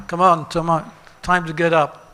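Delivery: acted call to get out of bed; mock wake-up call. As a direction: rouse a sleeper, insistent. Acting the Super Soul waking someone.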